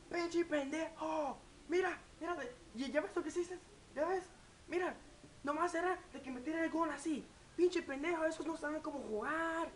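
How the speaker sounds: high, angry Mexican parent yelling in Spanish; parents screaming at the TV. Retold or imitated. Parents watching soccer yell at players, high mock fury. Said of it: "They're screaming at the players".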